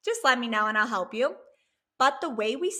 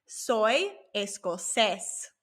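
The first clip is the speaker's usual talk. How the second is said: slow model phrase; much slower than usual. Shown as a demonstration. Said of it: "And to say".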